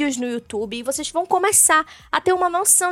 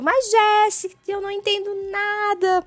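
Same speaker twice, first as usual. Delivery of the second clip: panicked beginner; 5 semitones higher than usual. Pretend. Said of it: "Surtos e gritarias nesse momento".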